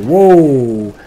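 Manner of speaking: jolted out of the commentary by a big hit; startled exclamation; loud whoa. Real, not acted. Caster sees squad nearly wiped.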